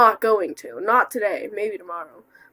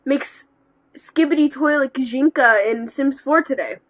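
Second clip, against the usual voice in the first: a touch higher, chirpy voice; wide-eyed eager kid voice; test tube voice; 4 semitones higher, 5 dB louder than usual. Pretend. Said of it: "in a test tube voice".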